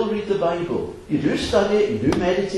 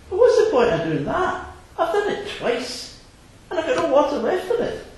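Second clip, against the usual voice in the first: put-on high complaining little-girl voice with a laugh; wee girl; 11 semitones higher than usual. Girl protesting to the fisherman, high and laughing. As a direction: whine it like a fed-up small girl. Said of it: "she says".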